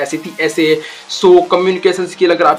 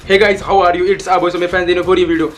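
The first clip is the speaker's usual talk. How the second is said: rushed talking; much slower than usual. Shown as a demonstration. Coach demos the wrong, rushed way to viewers, gabbling. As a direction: rattle off the greeting all in one rushed breath. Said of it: "अगर मैं ऐसा बोलूं बहुत तेज तेज में".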